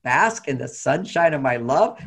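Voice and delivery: slow, savoring the phrase; dreamy repeat. Retold or imitated. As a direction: savor her words slowly. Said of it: "that was like".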